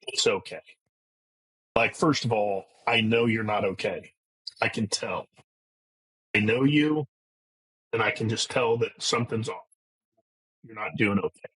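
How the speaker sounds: tag. Retold or imitated. Retelling son gently reassuring him.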